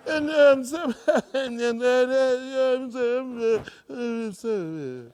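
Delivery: loud, slow, halting fillers; mock stammering. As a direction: stammer as if lost for words. Stammering in tongues.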